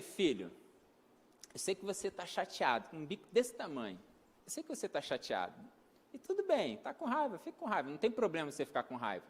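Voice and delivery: father comforting his upset son, low and gentle. Retold or imitated.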